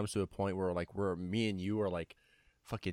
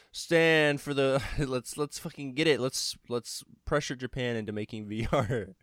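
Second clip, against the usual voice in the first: psych up yell; 2 semitones higher, 4 dB louder than usual. Real, not acted. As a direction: hype up the crowd, loud. Rallying listeners, cheering.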